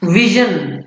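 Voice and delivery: "विजन" with j softened towards sh; soft zh sound. Shown as a demonstration. Teacher giving an example of the new sound, zh in "विजन". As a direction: say "विजन" as VIH-zhun. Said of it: "जा में शा छुपा हुआ है".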